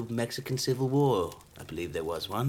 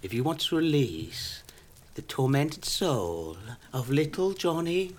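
spooky storytelling; 2 semitones higher than usual. Acted. Seller offering to release a tormented soul, spooky. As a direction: draw it out with mock gravity.

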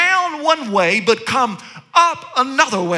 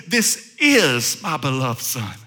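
much lower, slow and solemn divine voice; voice of God from heaven; 11 semitones lower, slower than usual. Acted. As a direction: boom it out slowly like God speaking from heaven. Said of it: "He says".

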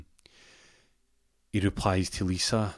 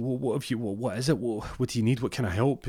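lightly voiced fretting girlfriend, slightly raised pitch; worried girlfriend; 4 semitones higher than usual. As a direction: stammer out anxious mock questions. Worried girlfriend questions confused partner.

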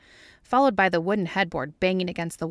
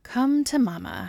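higher, slow, pleased coo; happy; 6 semitones higher than usual. A narrator's reading. Scully to a bag of hot fries, happily. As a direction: draw it out with relish. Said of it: "she says happily".

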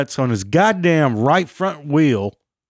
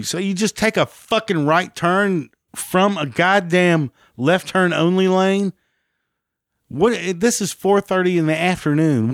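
higher, sarcastic, incredulous rant; angry rant; 4 semitones higher than usual. Retold or imitated. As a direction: tear into the driver's excuse. Ranting at the driver after crash.

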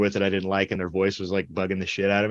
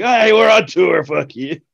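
much higher, louder defiance; mock defiant retort; 8 semitones higher, 8 dB louder than usual. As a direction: brush off the scolding, defiant. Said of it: "I'm like".

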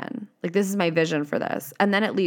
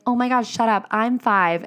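higher and louder, squealing with delight; thrilled little kid; 5 semitones higher, 3 dB louder than usual. Retold or imitated. Little kid on jungle gym gushing back, thrilled. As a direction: gush like a five-year-old finding a twin.

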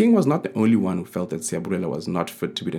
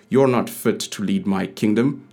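louder furious king; angry shout; 4 dB louder than usual. Acted. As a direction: shout it while attacking. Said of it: "the king shouted as he attacked".

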